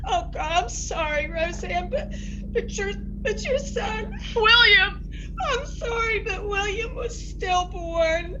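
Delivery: tearful apology. Acted. Aunt breaks stillbirth news.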